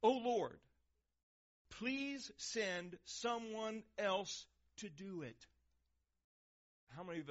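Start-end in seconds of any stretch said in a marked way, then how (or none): 0.0-5.5 pleading Moses. Retold or imitated. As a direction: beg to be let off, drawn out. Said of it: "finally Moses said".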